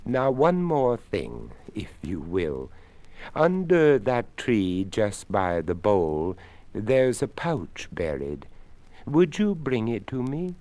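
put-on a polite old skeleton asking a favour. Skeleton speaks.

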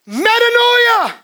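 Metanoia stretched slow, high and loud; drawn-out metanoia. Acted. Preacher drags out metanoia for the church, slow and loud. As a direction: pull every syllable long.

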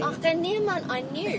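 put-on light playful Afrikaans accent, with a laugh. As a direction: slip into a hint of Afrikaans for fun. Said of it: "now that's the Afrikaans accent".

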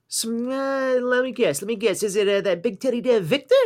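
squeaky, over-excited mock guess; mock gasp and high guessing voice. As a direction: ham up a breathless guess.

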